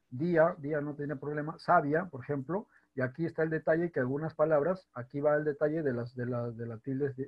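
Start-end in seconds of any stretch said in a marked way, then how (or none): 1.6-2.1 sabia said SA-bia, in two syllables; diphthong, no accent. Shown as a demonstration. Teacher showing how it would sound untilded, ia merged. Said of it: "sonaría diferente".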